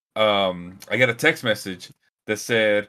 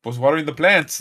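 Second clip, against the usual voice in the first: neighbor's apology; 8 semitones higher, faster than usual. Retold or imitated. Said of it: "he goes".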